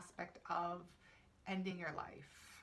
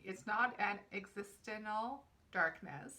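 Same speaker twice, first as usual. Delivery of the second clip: louder, measured card reading; reading aloud; 5 dB louder than usual. Real, not acted. Reader reciting the card's meaning to viewers, reading aloud. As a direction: read the card's text out with deliberate emphasis.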